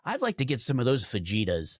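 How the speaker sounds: fajitas with a hard English J; Americanized pronunciation. Acted. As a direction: say "fajitas" as spelled, fa-JEE-tas. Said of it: "try to pronounce things like they look".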